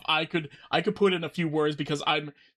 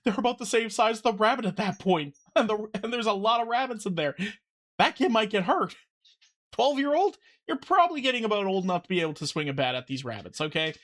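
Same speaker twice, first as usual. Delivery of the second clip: laughing; 6 semitones higher, faster than usual. Real, not acted. Joking about kids and rabbits.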